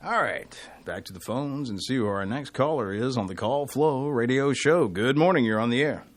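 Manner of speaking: upbeat radio host greeting; bright on-air welcome; radio host intro. Acted. Host greets next caller on air.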